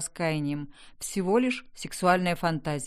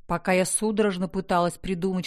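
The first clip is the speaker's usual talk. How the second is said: ordinary delivery, nothing marked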